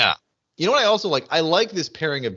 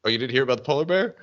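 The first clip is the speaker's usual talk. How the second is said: quick, casual rising question; Charlie; 2 semitones lower, much faster than usual. Retold or imitated. Podcaster imitating Charlie asking Michael, quick and casual. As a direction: toss it off matter-of-factly. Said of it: "Charlie just looks at him and goes".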